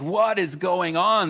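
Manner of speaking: bewildered. Retold or imitated. Newcomer recalling a wild church service, bewildered.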